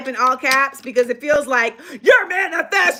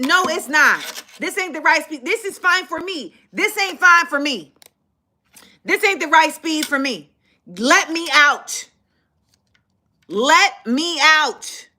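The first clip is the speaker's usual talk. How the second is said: stern demand; 4 semitones higher, slower than usual. Retold or imitated. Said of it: "arguing back".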